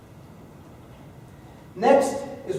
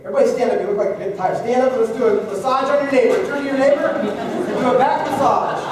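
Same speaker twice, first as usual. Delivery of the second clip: calling out; 4 semitones higher, 5 dB louder, faster than usual. Real, not acted. Teacher directs class to stand.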